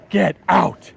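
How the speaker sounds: punchy mock-astonished exclamation; imitating a stunned sitcom catchphrase; classic Elaine disbelief. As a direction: hit both words hard, in playful disbelief. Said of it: "she does her classic".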